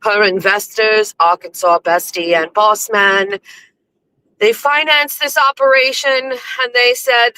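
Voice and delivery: theatrical storytelling, lightly hammed up; measured, proclaiming storyteller voice; mock-grand narrator. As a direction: narrate it like a pompous legend. Mock-grand narration of her show.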